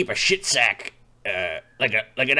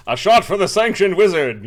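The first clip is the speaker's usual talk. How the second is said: wizard voice; 5 semitones higher, 6 dB louder than usual. Acted. Character orders a drink.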